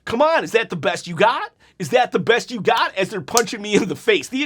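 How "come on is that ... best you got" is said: retold taunting. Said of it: "I just start talking trash".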